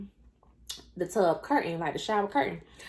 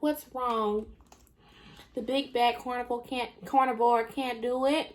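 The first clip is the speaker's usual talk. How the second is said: sarcastic taunt; 2 semitones higher than usual. Retold or imitated. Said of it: "being so sarcastic".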